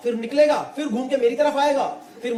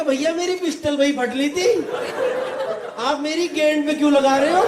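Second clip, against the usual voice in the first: higher-pitched mock complaint; bewildered pleading; 4 semitones higher than usual. Driver protesting to the gunman, bewildered and higher. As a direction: ask in pained, comic bewilderment.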